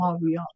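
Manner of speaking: "Montreal" with the N and T dropped; French pronunciation. Shown as a demonstration. Co-host trying a listener's tip, French "Montreal" as Mo-ree-al. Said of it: "pronounce Montreal in French accent".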